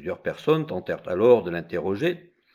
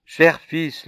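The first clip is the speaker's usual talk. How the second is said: tearful mother; 7 semitones higher, 7 dB louder than usual. Acted. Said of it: "Elle fondit en larmes".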